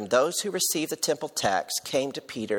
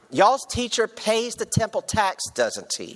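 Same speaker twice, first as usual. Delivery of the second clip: higher-pitched Tennessee vernacular, y'all-style talk; 9 semitones higher, 4 dB louder than usual. Recasting the tax collectors' question to Peter in Tennessee vernacular. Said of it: "let me just put this in our vernacular".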